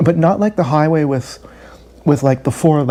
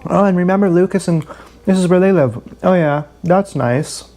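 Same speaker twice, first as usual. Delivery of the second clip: forced small talk; 3 semitones higher than usual. Retold or imitated. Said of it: "I'm giving one-word responses".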